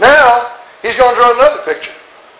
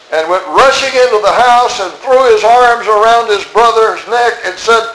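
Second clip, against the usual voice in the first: mock gushing welcome; 2 semitones higher than usual. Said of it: "Is that what it says in your Bible?".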